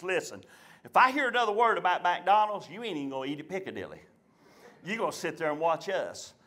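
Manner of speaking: low stern dad. Retold or imitated. Dad threatens child.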